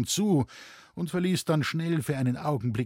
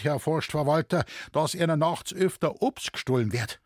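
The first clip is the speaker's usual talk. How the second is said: a hint of a proud country gamekeeper reporting to his boss; gruff Bavarian dialect, lightly played; Bavarian forester; 3 semitones higher than usual. Forester Moosbichler speaks.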